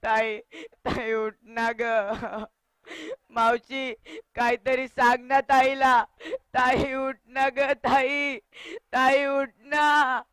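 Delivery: put-on crying boy begging his sister; drawn-out, sobbing plea to wake up; tearful pleading. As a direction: plead through tears. Boy begs dead sister to wake.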